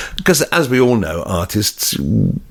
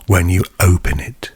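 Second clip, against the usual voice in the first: hushed, breathy whisper with long pauses; mock-sensual ASMR product showcase. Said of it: "this is like A S M R".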